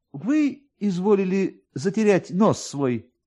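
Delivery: a lightly voiced polite clerk; police officer. A narrator's reading.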